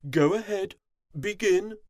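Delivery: queen grants him a chance; queen commanding. A narrator's reading. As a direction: regal order. Queen permits sternly.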